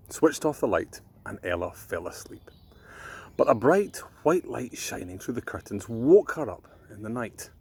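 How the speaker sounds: put-on gentle storyteller reading to children; bedtime story reading. A narrator's reading.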